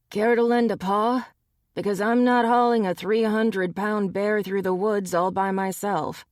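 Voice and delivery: half-joking plea for help; lightly voiced weary friend; weary medic. Ryan tends the bear.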